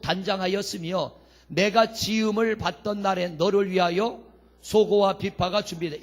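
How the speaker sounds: steady, even public recitation; formal pulpit Bible reading; scripture reading. Acted. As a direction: read the list of the verse out firmly. Reads scripture aloud to congregation.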